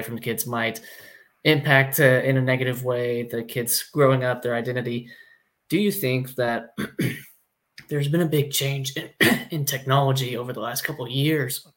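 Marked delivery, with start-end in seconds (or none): 5.7-11.7 rough, strained voice with throat clearing; hoarse voice, clearing the throat between words; hoarse, losing voice. Real, not acted. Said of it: "Sorry, I'm losing my voice".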